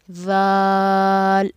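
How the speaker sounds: ज़ाल held long, thin and gentle; soft thin letter. Shown as a demonstration. Teacher showing students a long, soft ज़ाल. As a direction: draw ज़ाल out softly and thin. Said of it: "बारीक आवाज़ के अंदर पढ़ेंगे और नरमी के साथ".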